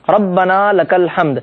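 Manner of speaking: ربنا لک الحمد slowly, doubled b in ربنا clear; deliberate recitation of ربنا لک الحمد; correct pronunciation. Shown as a demonstration. Teacher modelling the prayer phrase for viewers, slow and exact. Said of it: "صحیح طریقے سے ادا کرنا چاہیے".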